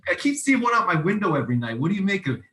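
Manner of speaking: put-on playful, hurried New York accent. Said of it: "I can do a good New York accent".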